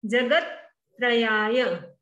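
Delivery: जगत ending in a half t that joins त्रयाय. Shown as a demonstration. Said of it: "त आधा है इसलिए बोलेंगे". (जगत का त आधा बोलें)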